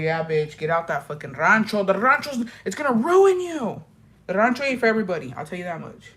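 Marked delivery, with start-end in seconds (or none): 0.0-3.8 rising urgent warning. Retold or imitated. Urging cousins to leave rancho.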